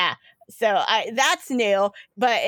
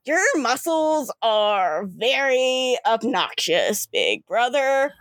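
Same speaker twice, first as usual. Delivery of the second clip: lightly voiced slow, deliberate character; a slow, measured jab at a brother; River; slower than usual. Sister in her brother's body teasing him, slow and deliberate. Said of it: "you hear River's voice coming".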